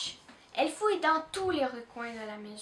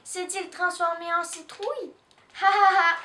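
mocking laugh; 4 semitones higher, 4 dB louder than usual. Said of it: "se moque Doudou".

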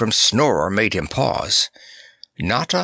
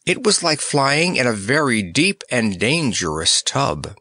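plain reading voice

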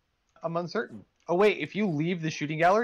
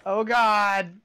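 panicked; 5 semitones higher, 5 dB louder, much slower than usual. Real, not acted. Being shot at in game.

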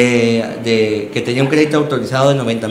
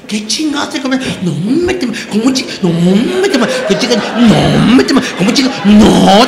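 imitated hysterical wife; 6 semitones higher than usual. Wife scolding husband over the new TV, high mock hysterical rant.

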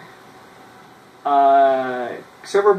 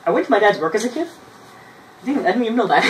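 surprised; 6 semitones higher, 4 dB louder, much faster than usual. Real, not acted. Surprised by his own story.

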